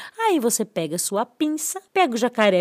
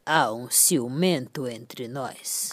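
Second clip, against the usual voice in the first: very deep, slow, soft brick voice; slow deep brick whisper; brick's voice; 11 semitones lower, 6 dB quieter, slower than usual. Acted. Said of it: "O que que um tijolo diz pro outro?". (voz grave de tijolo)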